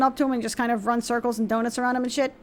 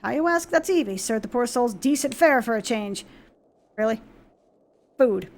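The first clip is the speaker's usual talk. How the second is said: a hint of a plain-spoken captain giving advice; lightly voiced gruff soldier. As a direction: speak like an old soldier sharing a tip. Reads NPC dialogue aloud.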